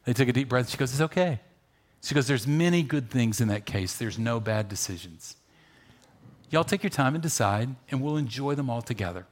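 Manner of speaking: soft, calm, reassuring; mother gently soothing her boys. Retold or imitated. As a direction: lean in and calm anxious kids. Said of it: "the mom just leans in and says".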